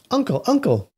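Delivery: high-pitched call to an uncle; eager calling out. Acted. Nephew to his uncle during dinner, high calling out. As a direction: call out high, as a little story character.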